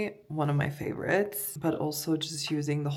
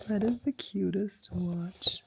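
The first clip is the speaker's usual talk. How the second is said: delighted whisper; 2 semitones higher than usual. Real, not acted. Delighted by watch.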